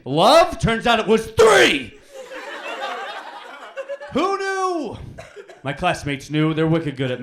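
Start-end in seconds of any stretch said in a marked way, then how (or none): 0.0-0.6 mock shocked. Punchline exclaim. 0.6-5.0 mock surprise.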